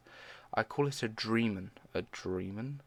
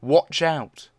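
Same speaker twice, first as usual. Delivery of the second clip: shouted warning; 2 semitones higher, 7 dB louder than usual. Acted. Warning everyone as the dream monster lunges, shouting. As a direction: yell a warning.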